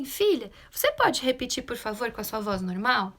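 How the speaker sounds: even, unruffled parent request; low calm voice. Acted. Mother answering her yelling daughter, calm and low-voiced. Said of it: "Com um tom de voz baixo".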